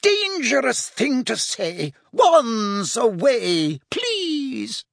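high, drawn-out panicked plea; squealing fluster. A narrator's reading. Shop owner begging for wands away, squealing. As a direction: fret in a high, alarmed lady's voice. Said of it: "Madame Malkin squealed".

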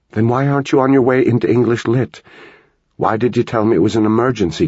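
a mother pulled from her seminar demanding answers; rapid, fed-up questioning mom; exasperated mother. Acted.

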